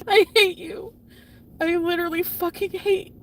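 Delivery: high, loud bitter outburst; angry hatred. Real, not acted. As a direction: fling it at the one who betrayed you. Addresses cheating partner in anger.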